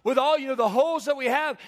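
put-on high, loud child's reasoning; little boy. A little boy questioning in Sunday school, high and loud. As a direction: pipe up loudly as a little boy. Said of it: "and the little boy says".

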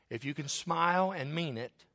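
"mean it" set apart with weight; stress on "mean it". Real, not acted. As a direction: lean pointedly on "mean it". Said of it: "you emphasize the word mean it".

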